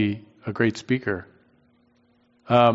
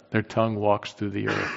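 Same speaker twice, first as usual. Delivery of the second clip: softer, leaning on "tongue"; a softer relishing repeat with "tongue" stressed; savoring repeat; 3 semitones lower, 7 dB quieter than usual. Shown as a demonstration. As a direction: say it again quietly, savoring "tongue". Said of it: "I love that".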